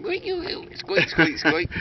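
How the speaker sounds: lightly voiced dolphin squeaks; dolphin imitation. Man trying to talk dolphin to a dolphin, playful imitation. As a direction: have a jokey go at squeaking like a dolphin. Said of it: "how do you do fucking dolphin".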